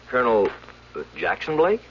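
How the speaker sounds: the name hits like a blow; shocked recognition. Acted. Recognizes the dead pilot's name.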